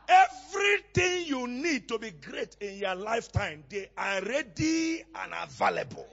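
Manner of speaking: stretched, ringing sermon declaration; emphatic preaching. Real, not acted. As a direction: proclaim it to the whole congregation. Preaches with force to congregation.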